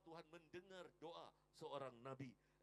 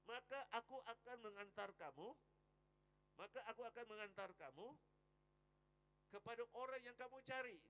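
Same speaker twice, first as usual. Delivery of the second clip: proclaiming Elisha; 7 semitones higher, 7 dB louder than usual. Acted. Elisha voiced, proclaiming loudly.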